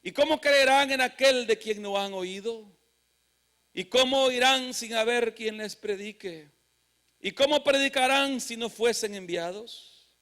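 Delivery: emphatic preacher reading out verse; scripture reading. Real, not acted. Preacher reading rhetorical questions to the congregation, declaimed. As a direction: declaim each question, pausing after it.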